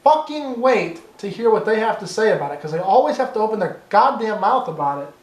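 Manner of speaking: real rising frustration, swearing for emphasis; worked-up, exasperated rant; getting angry. Real, not acted. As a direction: let yourself get fired up as you vent. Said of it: "I'm getting angry".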